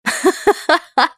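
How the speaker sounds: short high hysterical giggle; a laugh on the edge of tears. A narrator's reading. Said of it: "Истерический смешок".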